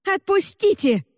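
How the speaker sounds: put-on girl barks at the woman holding her; barked order. A narrator's reading. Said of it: "рявкнула Эбель".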